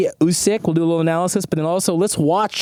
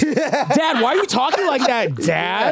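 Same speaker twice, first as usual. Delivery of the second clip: laughing; 8 semitones higher, slower than usual. Pretend. Playing the kid, laughing.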